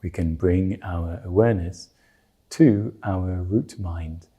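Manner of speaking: calm, measured meditation guidance with long pauses; guided meditation. Real, not acted. Teacher settling listeners before they meditate on the root mind, guided meditation. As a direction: ease listeners into stillness, leaving space between phrases.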